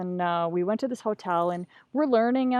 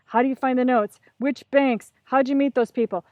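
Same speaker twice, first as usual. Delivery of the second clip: insistent, raised-pitch interrogation; hammering questions; 3 semitones higher, 4 dB louder than usual. Retold or imitated. Student knee to knee with the teacher, hammering questions. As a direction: fire questions one after another, pressing for answers. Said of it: "I just start hammering him with questions".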